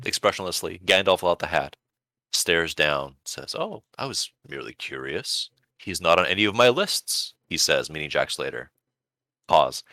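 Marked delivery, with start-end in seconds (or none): 3.5-7.3 lightly voiced Death, quiet and unmoved; calm expressionless Death. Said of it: "calmly, expressionlessly".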